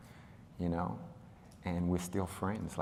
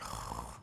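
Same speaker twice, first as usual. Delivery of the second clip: reluctant sigh; 8 semitones lower, 9 dB quieter than usual. Retold or imitated. Acts out reluctant child's reaction.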